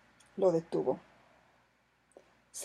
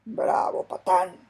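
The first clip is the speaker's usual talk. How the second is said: shouting; 4 dB louder, slower than usual. A narrator's reading. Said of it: "gritó Sandokan".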